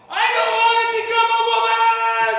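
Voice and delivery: long, high full-volume mock wail; imitated yell. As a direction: imitate a girl's drawn-out scream of protest. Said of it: "she literally yelled this".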